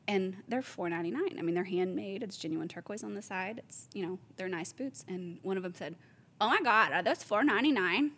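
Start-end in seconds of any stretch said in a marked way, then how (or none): 6.4-8.1 put-on aghast shopper in a rough Jersey accent; mock-shocked Jersey impression; attempted Jersey accent. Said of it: "I don't know what a Jersey accent is".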